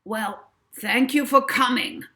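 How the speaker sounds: syrupy, loud showman's farewell; oily talent agent seeing guests out; treacly voice. A narrator's reading. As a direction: pour on the charm, thick and sweet. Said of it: "came Barry Bragg's treacly voice".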